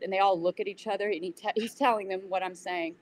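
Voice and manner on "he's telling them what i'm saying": ordinary talk, nothing marked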